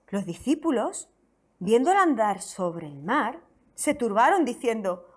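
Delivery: measured, solemn Bible reading; slow, deliberate reading of the Gospel; scripture reading. Acted. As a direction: read the passage aloud to the church. Reads scripture aloud to congregation.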